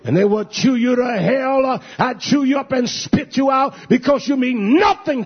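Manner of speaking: fiery pulpit shout, slowed for weight; preaching shout. Real, not acted. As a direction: thunder it at the congregation. Preacher denouncing politicians, rising to a shout.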